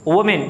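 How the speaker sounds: women said as wi-min; correct pronunciation. Shown as a demonstration. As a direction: model women as wimin. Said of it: "इसको पढ़ा जाता है women". (women को विमिन बोलना)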